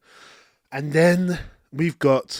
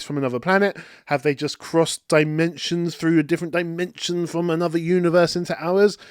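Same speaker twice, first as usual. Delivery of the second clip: excited fan; 2 semitones higher than usual. Retold or imitated. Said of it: "we're like".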